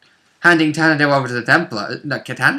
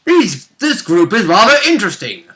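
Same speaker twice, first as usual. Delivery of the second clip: mock Warden; 5 semitones higher than usual. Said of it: "the Wardens are like".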